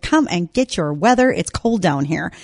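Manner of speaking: lightly imitated Southern accent, slowing at the end. Host quoting an Arkansas rice farmer, half-hearted Southern accent. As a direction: attempt a Southern accent, not quite managing it. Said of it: "in a fabulous accent, and I can't quite do it".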